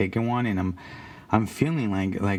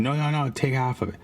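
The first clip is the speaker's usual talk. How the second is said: quick, higher-pitched mock insistence; insistent; 4 semitones higher, faster than usual. Friend pressing a nervous kid to take it, insistent. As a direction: brush the refusal aside in a quick retold voice. Friend overrides his refusal.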